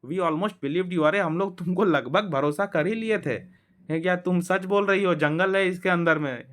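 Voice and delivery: हल्की ऊँची, चिढ़ाती आवाज़; Peter mocking. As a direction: tease her for the joke. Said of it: "Peter ने कहा".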